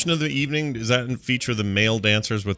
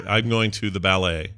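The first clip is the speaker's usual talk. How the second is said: "ballet" with the weight on its last syllable; second-syllable stress; 4 semitones lower than usual. Shown as a demonstration. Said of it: "So the emphasis on the second syllable".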